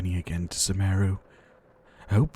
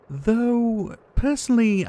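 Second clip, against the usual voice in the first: wry aside; 14 semitones higher, 5 dB louder, slower than usual. Acted. Wry aside about lightning.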